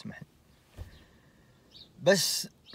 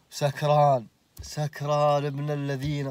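incredulous; 5 dB louder, slower than usual. Real, not acted. Exclaims drunk again.

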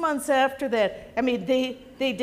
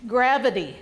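mildly raised punchline; loud voice. Retold or imitated. Patient answers nurse before surgery, mildly loud deadpan. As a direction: deliver it a touch louder, deadpan. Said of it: "he said in a very loud voice".

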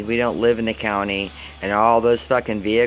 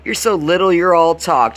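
high, rising to louder scorn; mocking taunt; 7 semitones higher, 4 dB louder than usual. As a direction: belittle the little dog, pitched way up. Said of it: "I'm like".

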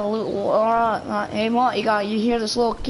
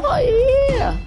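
very high, loud falsetto whoop; put-on squeaky outburst; playful high squeal; 5 dB louder than usual. Streamer squeals before catchphrase.

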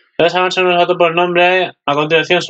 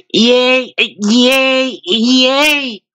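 excited cheer; 9 semitones higher, much slower than usual. Pretend. Cheering idol pose.

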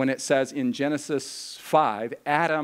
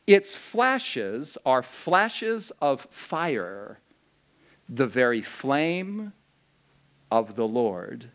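slow, solemn reading of verse; measured, reverent recitation; scripture reading; slower than usual. Acted. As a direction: read it like a sacred love poem.

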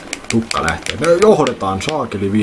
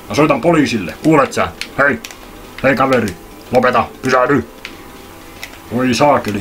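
calling after Dingodile; 5 semitones higher than usual. Acted. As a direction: yell after him to stop. Huutaa karkaavan Dingodilen perään. (kovaa huutoa karkaavan perään)

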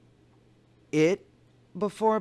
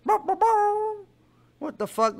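mock cartoon rooster; 12 semitones higher, much slower than usual. Imitating cartoon rooster sound.

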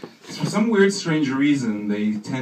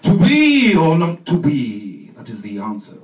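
hammy Hamlet; 3 semitones higher, 7 dB louder, slower than usual. Retold or imitated. Actor recites Hamlet for the audition, slow and hammy. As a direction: declaim Shakespeare like a ham. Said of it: "audition for you for the part of Hamlet".

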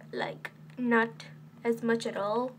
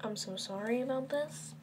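whisper; 9 dB quieter than usual. Pretend. Whispered apology takeover.

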